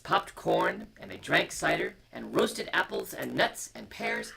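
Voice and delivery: put-on gentle read-aloud to children; storybook reading. A narrator's reading. Parent reading a bedtime story to children, gentle.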